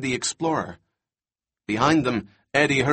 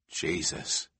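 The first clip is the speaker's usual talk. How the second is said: breathless, whispered horror; horrified whisper; 7 semitones lower, 9 dB quieter than usual. A narrator's reading. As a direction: gasp it out in dread. Eddie sees the T-Rex.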